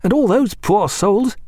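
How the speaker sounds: lightly voiced keen young officer. A narrator's reading. Reed voiced.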